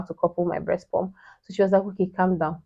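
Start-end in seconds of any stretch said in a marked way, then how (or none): 1.8-2.6 soft calming instruction; hushed, steadying reassurance; retold soothing. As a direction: imitate a friend quietly settling someone. Friend calms her on the call.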